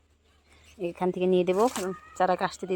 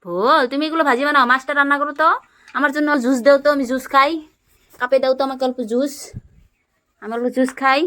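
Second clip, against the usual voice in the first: higher, pleading pretend-kid voice; playing the hungry child; 6 semitones higher, 7 dB louder than usual. Mother pretends to be the child asking her toddler for juice, playful pleading. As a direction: beg the little cook for food.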